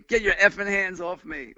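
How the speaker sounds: mild imitated English accent, slurred and tipsy; a drunk Englishwoman snapping at the narrator, mildly mimicked in an English accent. Nancy at the Chelsea cursing at the helper, light English accent. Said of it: "with an English accent, but drunk".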